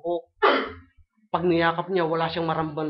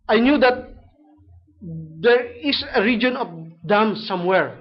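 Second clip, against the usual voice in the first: vow; 3 semitones higher, 5 dB louder than usual. Retold or imitated. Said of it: "sabi niya".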